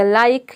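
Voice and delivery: "लाइक" with an eye vowel; long I demo. Shown as a demonstration. Teacher assembles the example word, long I demo. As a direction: say "लाइक" with आई, ending on k. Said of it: "आई का हो जाएगा आई".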